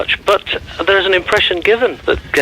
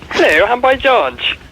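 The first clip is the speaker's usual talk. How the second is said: slow put-on boyfriend voice; lightly voiced singer impression; 6 semitones higher, slower than usual. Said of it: "my boyfriend wants to speak to me".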